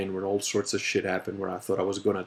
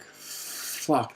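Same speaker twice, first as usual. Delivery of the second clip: soft breathy fuck of dread; hushed despairing curse; whispered curse; 6 dB quieter than usual. Retold or imitated. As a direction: whisper it as your knees give way. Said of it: "I was just like".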